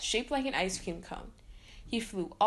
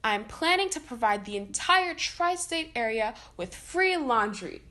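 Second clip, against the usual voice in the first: cried; 4 dB louder than usual. Acted. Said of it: "he cried".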